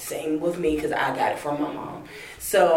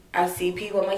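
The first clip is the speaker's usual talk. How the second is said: normal talking voice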